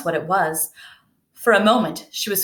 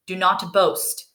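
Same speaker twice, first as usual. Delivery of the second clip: sharply; slower than usual. Acted. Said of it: "Bellini said so sharply".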